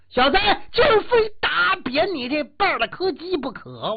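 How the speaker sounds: loud, high menacing threat; hammed-up bully's threat; thug's threat. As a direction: bark it at the hero. Thugs threaten the hero.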